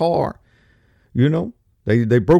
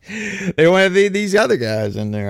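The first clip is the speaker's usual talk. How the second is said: laughing whisper; 4 semitones higher than usual. Real, not acted.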